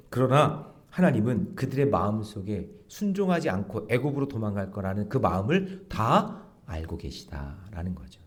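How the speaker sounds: ordinary delivery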